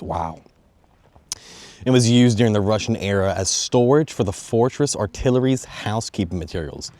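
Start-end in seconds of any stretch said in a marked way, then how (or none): 1.8-6.9 emphatic read-off from a history script; reading aloud. Real, not acted. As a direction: read the history notes out to viewers. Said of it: "I have a little script I'm reading off".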